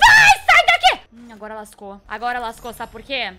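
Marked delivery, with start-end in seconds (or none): 0.1-1.0 piercing, very high shriek; panicked scream. Real, not acted. Gamer shooing a sudden monster, panicked scream. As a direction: scream it as if jumped on.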